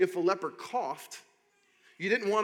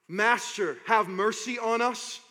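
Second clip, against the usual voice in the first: raw desperate cry; 4 semitones higher, 5 dB louder than usual. Retold or imitated. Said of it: "I picture cries that sound raw".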